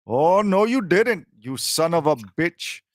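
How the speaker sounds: high mock outrage, sliding down to a slow finish; imitated viral video line. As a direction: mimic an indignant caller, lightly hammed-up. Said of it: "Have you ever seen that video".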